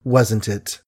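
honeyed voice hiding contempt; sweet as honey yet cutting; suave sweetness. Acted. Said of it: "Suave, gentle, sweet as honey was the speech".

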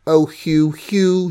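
gently apologetic, pleading; contrite. A narrator's reading. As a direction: soften into a sorry plea. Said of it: "she said contritely".

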